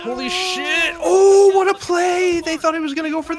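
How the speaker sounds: high, loud hype shout; excited. Real, not acted. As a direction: yell it out at a huge play. Big play reaction.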